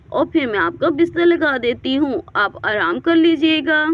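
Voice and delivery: put-on a caring girl insisting he eat; coaxing girl. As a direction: urge him kindly but firmly. Girl coaxes him to eat.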